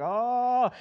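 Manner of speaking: high, greedy glutton at the table; himself at Thanksgiving. Pretend. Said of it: "I'm gonna be like".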